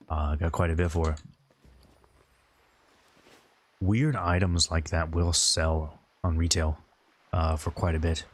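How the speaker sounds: light British RP accent; drifting into an RP accent. Real, not acted. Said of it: "Why does it sound like I'm speaking in an R P voice?".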